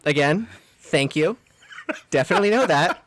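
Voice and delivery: exasperated politeness. Retold or imitated. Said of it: "And I was like".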